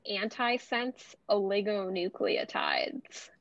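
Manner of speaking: slow, careful articulation of ANTISENSE OLIGONUCLEOTIDES; unhurried, spelled-out delivery of a hard term. Shown as a demonstration. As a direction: say antisense oligonucleotides slowly, part by part. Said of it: "could you just say that slower".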